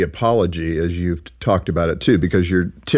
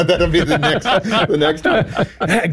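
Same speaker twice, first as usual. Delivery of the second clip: words breaking into real giggles; laughing; 7 semitones higher, slower than usual. Real, not acted. Host giggling about quizzing her husband at home, laughing. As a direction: giggle through it, drawn out slowly.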